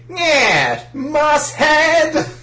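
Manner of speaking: high, loud brash dub Joey. Retold or imitated. Dub Joey voice insulting Zoro, high brash yell. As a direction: bark it like Yu-Gi-Oh Joey. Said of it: "do the fucking Joey from Yu-Gi-Oh!".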